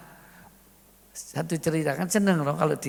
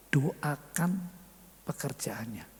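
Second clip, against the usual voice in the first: gentle whispered instruction, much softer; 3 semitones lower, 5 dB quieter, slower than usual. Acted. Holy Spirit whispers gently to the praying wife. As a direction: breathe it like a voice from heaven. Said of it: "ada bisikan lembut".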